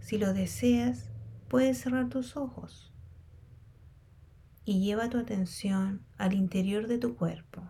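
unhurried meditation guide with long pauses; guided meditation. Real, not acted. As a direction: guide them calmly through a body scan, leaving space between phrases. Leads a body scan meditation.

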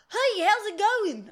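put-on slow, over-cheery Polish accent greeting; drawn-out mock Polish accent hello. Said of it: "That's my Polish accent".

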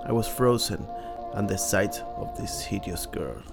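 ordinary talk

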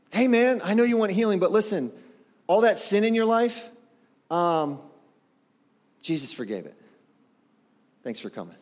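breezy pastor waving off a man in a wheelchair; mock breezy brush-off. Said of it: "Does that seem offensive to you".

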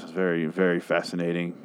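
low-energy, unimpressed sarcasm; sarcastically bored. Real, not acted. Host feigning fascination with the plot, bored sarcasm. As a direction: say it as if it bores you. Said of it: "You can tell by my tone of voice".

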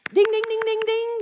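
mock quiz bell, sung high and bright; game show ding. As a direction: ring it out like a winning buzzer. Game-show bell for right answer.

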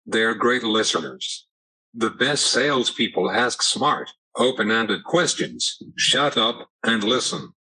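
synthetic text-to-speech voice; computer voice. Real, not acted. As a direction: speak like an AAC speech device. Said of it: "using a computer voice".

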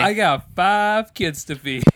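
slow, loud, dragged-out complaint; hammed-up tired dad; mock weary parent. Mock dramatic parent line.

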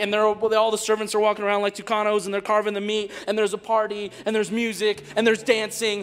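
loud, high preaching voice; a booming sermon build; full-force preaching. Acted. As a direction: proclaim it to the whole room.

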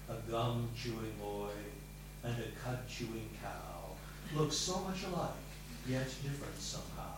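put-on half-sung classroom rhyme from a stern old vet; reciting stern teacher. Old teacher reciting his gum rhyme to a pupil, lightly mimicked. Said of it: "and recite".

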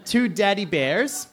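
normal talking voice

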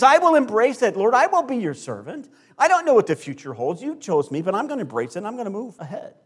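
fervent vow. Acted. Mary answering God, acted out.

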